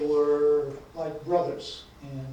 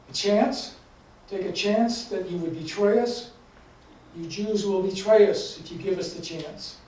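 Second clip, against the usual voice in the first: incredulous, raised-pitch challenge; acted indignation, pushed a little higher; indignant officer; 4 semitones higher, 3 dB louder than usual. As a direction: throw the offer back in mild outrage. Angry officer rejects their plea.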